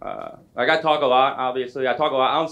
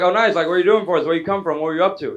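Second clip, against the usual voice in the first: over-eager; 3 semitones higher than usual. Retold or imitated. Comedian peppering his friend with questions, over-eager. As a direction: pounce on every answer with enthusiasm.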